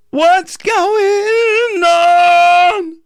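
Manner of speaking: very high, slow, open yawn-like tone. Shown as a demonstration. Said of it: "I can reach that with that yawning".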